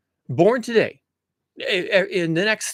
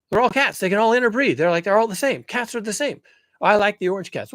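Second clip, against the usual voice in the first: visiting alien; 4 semitones higher, 3 dB louder than usual. Retold or imitated. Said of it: "they would say".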